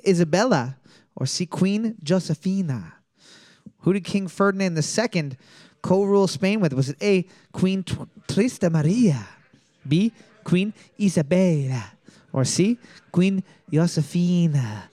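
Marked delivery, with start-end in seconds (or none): 3.8-14.8 put-on Spanish accent. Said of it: "me speaking in my slightly offensive Spanish accent".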